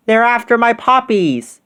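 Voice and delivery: high panicked shout; shout with mouth full. Acted. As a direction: cry out in alarm. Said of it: "shouted Katie".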